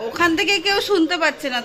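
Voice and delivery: loud laughing remark. Real, not acted. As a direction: laugh as you call out. Mother laughing at hidden child.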